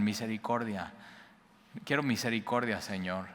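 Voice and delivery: a humble, hushed beg for mercy; quiet imploring prayer; soft pleading. Acted. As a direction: softly plead "misericordia", dropping to near silence on "Señor". Blind men begging for mercy.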